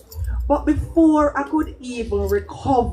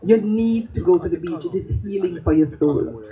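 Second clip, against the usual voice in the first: serious. Retold or imitated. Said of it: "The seriousness in her voice".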